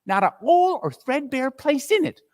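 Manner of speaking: high, cackling crone gloats over the loot; gloating old charwoman. Acted. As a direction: relish every stolen thing.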